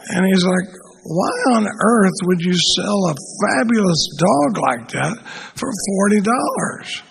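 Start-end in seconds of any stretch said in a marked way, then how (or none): 1.0-7.0 slow, drawn-out mock disbelief; playing incredulous, lingering on the words. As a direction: stretch the question out in acted bafflement. Joke: man baffled by low price.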